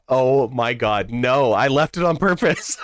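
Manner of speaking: drawn-out, emphatic retold protest; mock exasperation. Telling mom the box was hidden deliberately, in mock exasperation. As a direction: stretch the opening out, then break toward laughter.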